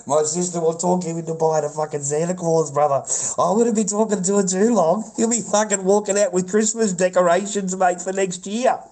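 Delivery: high, loud words bubbling with laughter; can barely get it out for laughing; cracking up at his own joke; laughing while talking. Real, not acted. Laughing, teasing a chatter.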